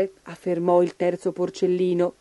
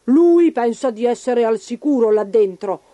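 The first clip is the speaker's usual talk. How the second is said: growling wolf; 4 dB louder than usual. Acted. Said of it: "ringhiò il lupo affamato".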